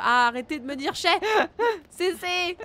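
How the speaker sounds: loud, high, laughing protest; play-scold the chat while laughing; laughing mock outrage. Real, not acted. Streamer telling chat to stop, laughing mock indignation.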